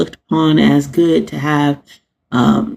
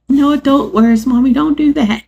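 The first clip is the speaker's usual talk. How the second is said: imitating her son; 9 semitones higher than usual. Mother imitates her kid scolding her cussing, high child voice. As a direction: play the little boy scolding mommy. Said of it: "he'll be like".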